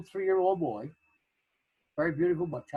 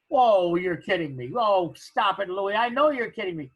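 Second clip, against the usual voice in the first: mock disbelief; 5 dB louder than usual. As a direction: brush him off like he's pulling her leg. Friend laughs off witch claim.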